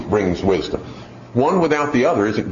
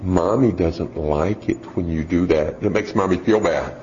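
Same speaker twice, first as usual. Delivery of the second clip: mock sweet mom; 5 semitones lower than usual. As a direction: coax the child gently and sweetly. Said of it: "she goes".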